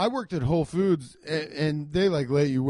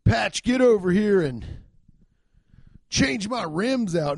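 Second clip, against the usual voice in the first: bossy call to the new guy, pitched up; mock biker boss; 4 semitones higher, 4 dB louder, slower than usual. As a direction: order the rookie over, drawn out.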